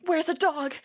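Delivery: high-pitched eager call; excited cry. Acted. Rosier runs off to find the dog, excited. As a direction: call out with childlike glee. Naked bird runs off delighted.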